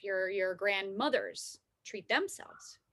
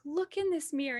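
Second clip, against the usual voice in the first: raised, gentle motherly voice; lightly voiced loving mom; tender mother; 6 semitones higher than usual. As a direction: soothe her like a mom at the mirror. Mom comforting crying daughter.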